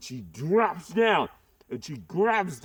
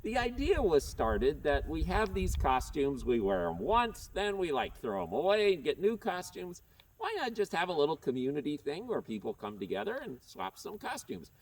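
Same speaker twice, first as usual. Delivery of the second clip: through a face mask; 2 semitones lower, 5 dB quieter than usual. Real, not acted. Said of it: "so hard to talk through this mask".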